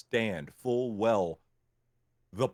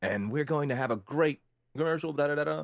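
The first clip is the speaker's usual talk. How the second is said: lightly upbeat golden retriever guy next door; a hint of a chipper white guy next door pitch; 4 semitones higher than usual. Shown as a demonstration. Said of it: "golden retriever white guy next door".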